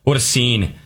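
catching his breath after running; winded from running upstairs. Real, not acted. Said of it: "I'm just catching my breath a little bit".

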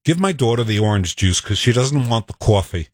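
light New York accent; a hint of a New York accent. Shown as a demonstration. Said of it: "Can you do a New York accent?".

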